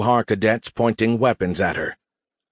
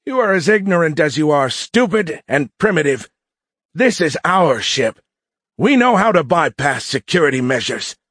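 put-on high-pitched, contemptuous young bully; sneering mutinous cadet; 7 semitones higher, 3 dB louder than usual. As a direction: boast and insult with smug superiority. Cadet sneers at captive officer.

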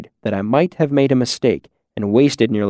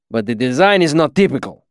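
put-on accented master craftsman weighing a flaw; stern, deliberate foreign-accented teacher; Kilvin, measured critic. Master questioning his student's design, measured accented reserve.

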